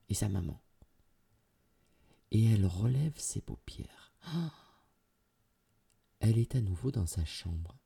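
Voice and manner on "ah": soft intake of surprise; airy, astonished "ah"; breathy gasp. A narrator's reading. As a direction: gasp on opening your eyes. Girl opens eyes, surprised.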